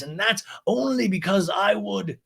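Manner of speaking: high, slow, posh scolding lady; Lisa impression. Lisa scolds James's girlfriend, high slow posh voice. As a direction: purr it out high and slow like a grande dame.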